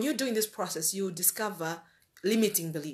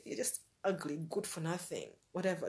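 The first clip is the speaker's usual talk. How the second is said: mock inner critic; 3 semitones lower, 10 dB quieter than usual. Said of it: "you look in the mirror and you see".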